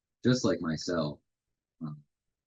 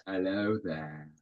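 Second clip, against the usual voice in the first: slow mock British hello; playful put-on British accent; slower than usual. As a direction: greet them like a posh Brit, slowly. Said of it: "Of course, we're British now".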